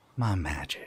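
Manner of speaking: hushed, quiet, soft unicorn voice. Voicing a unicorn who speaks quietly to a player: speaking quietly as the unicorn. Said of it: "she just says quietly to you".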